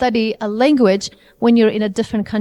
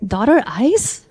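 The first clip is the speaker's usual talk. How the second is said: puzzled learner; slower than usual. Retold or imitated. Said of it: "when they hear me, they say".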